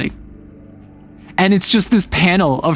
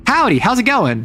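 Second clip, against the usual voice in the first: put-on Kansai accent; 8 semitones higher than usual. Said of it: "a Kansai accent".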